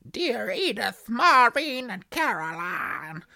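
slow, hammed-up American drawl; comically drawn-out American accent. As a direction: read it out in a broad mock-American accent. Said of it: "do it in an American accent".

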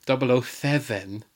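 slow, lightly put-on Welsh accent. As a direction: imitate a Welsh Bond, drawn out. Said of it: "he doesn't do it in Welsh".

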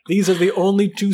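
giggling through words; can't hold back giggles; laughing. Real, not acted. Reader giggling mid-sentence.

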